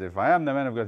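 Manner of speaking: a touch of anger, acted out; angry retort. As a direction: retell an angry comeback with some force. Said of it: "he was very angry".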